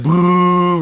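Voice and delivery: drawn-out imitated boo; crowd boo. Streamer retells fans hating the winner, imitated crowd boo. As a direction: mimic a crowd booing. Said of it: "Everyone's like".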